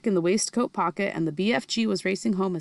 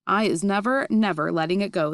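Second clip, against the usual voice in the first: louder, insisting; a giant vowing firmly; emphatic cry; 4 dB louder than usual. Acted. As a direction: swear never to release it. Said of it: "the B F G cried".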